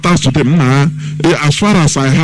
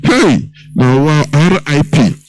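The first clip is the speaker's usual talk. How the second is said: mock wailing lament; slower than usual. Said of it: "Others will shout".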